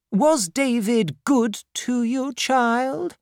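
put-on high, gentler old lady voice; the aunt softening at last; softened stern aunt. Aunt Betsy asks the widow about her husband, high and gentler.

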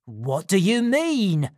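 frantic for news; scream. A narrator's reading. Fagin to Crackit, panicked scream. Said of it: "screamed Fagin".

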